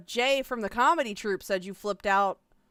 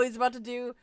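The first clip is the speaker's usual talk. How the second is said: usual speaking voice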